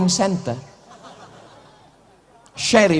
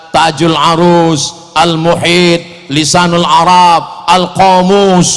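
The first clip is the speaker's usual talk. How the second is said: slow, deliberate dictionary names; slow list; 4 dB louder, slower than usual. Real, not acted. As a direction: list each title slowly. Reciting dictionary names proudly. (sebut nama kamus pelan-pelan)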